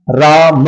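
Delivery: राम ending in an audible breathed ह; visarga pronunciation. Shown as a demonstration. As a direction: draw out राम and sound the final visarga as ह. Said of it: "ह उच्चारण लेते हुए है". (राम के अंत में ह का उच्चारण)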